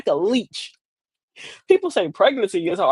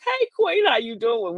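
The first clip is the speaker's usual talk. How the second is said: acted friendly greeting.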